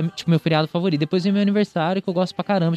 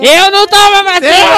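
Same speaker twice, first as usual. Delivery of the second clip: much higher, much louder shout; angry shout; 14 semitones higher, 10 dB louder than usual. Acted. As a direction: yell it like a stubborn uncle. Acting an anti-vax relative.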